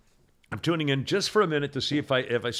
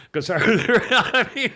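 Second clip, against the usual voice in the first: laughing through the words; 8 semitones higher, 7 dB louder, much slower than usual. Real, not acted. Host recalling his bets on The Bachelor, laughing. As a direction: break up while starting to explain.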